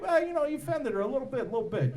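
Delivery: dad lightly doing De Niro, fast and mumbled; a hint of Robert De Niro. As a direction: shrug it off like De Niro. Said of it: "like Robert De Niro".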